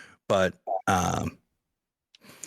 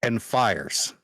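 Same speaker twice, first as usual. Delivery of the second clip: measured narration with suspenseful pauses; game master's scene setting. Acted. Game master revealing the Phoenix's weapon to players, measured and suspenseful. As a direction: dole it out phrase by phrase.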